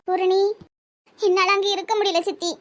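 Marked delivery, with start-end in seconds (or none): 1.2-2.5 tearful. Acted. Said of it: "ஏமா அழுறா?".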